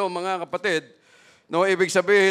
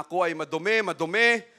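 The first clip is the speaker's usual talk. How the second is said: leper crying out; 5 dB louder, faster than usual. Acted. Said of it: "sisigaw yan siya dyan na".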